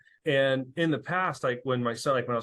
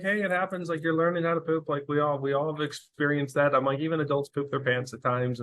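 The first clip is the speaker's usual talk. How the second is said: gentle and calm; 3 semitones higher than usual. Retold or imitated. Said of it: "really gently and calmly".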